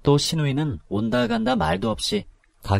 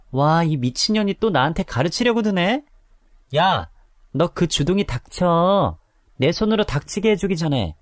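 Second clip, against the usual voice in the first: menacing threat; 6 semitones higher than usual. Acted. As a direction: threaten to shut her up. Sister-in-law threatening. (위협하는 말투)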